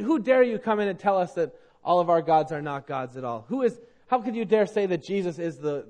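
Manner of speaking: mildly indignant acted heckling; scornful mockers. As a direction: act out offended scoffers challenging a newcomer. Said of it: "some mocked".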